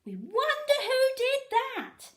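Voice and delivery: high, loud sing-song taunt; mock crowd shout. A narrator's reading. Fans in the stands teasing, high loud shout. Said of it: "shouted the fans in the stands".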